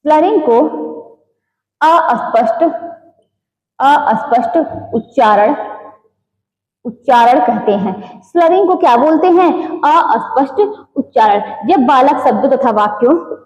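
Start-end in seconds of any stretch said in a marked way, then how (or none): 0.1-8.2 word by word with long pauses; dictation. Real, not acted. Teacher dictating notes to students, dictation.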